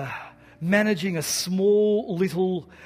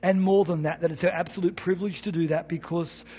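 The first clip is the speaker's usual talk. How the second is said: closing prayer. Acted. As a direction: lead the congregation in prayer, lingering on send.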